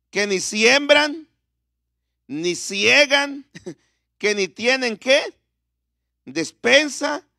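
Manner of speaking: slow, measured verse reading; deliberate pulpit reading with drawn-out words; scripture reading. Real, not acted. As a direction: read the verse out slowly, phrase by phrase. Reads verse with pauses for congregation.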